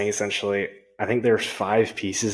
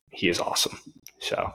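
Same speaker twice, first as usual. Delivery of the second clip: whispering; 2 semitones lower, 3 dB quieter than usual. Real, not acted. Hushed emphatic aside.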